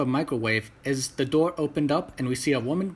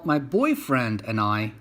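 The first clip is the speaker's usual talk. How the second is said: put-on boyfriend drawn out slowly and pointedly; pointed emphasis on "boyfriend"; stress on boyfriend; slower than usual. A narrator's reading. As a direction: lean hard on "boyfriend", slower. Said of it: "putting an emphasis on the word boyfriend".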